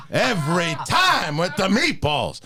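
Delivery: yelling Al Pacino. Acted. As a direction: rant like late-career Pacino. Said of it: "The yelling?".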